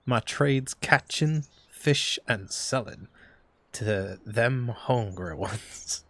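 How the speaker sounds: slow Southern drawl fisherman; Southern accent. Acted. Fisherman explaining his trade to Wiki, slow Southern accent. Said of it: "Don't know why he's got a southern accent".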